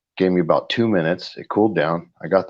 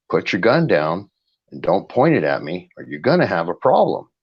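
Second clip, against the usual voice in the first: retold blunt order, slightly raised; straight-up warning; 4 semitones higher, 4 dB louder than usual. Retelling what he told the cop, straight-up warning. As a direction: firmly warn him off, voice a little higher. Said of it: "I told him straight up".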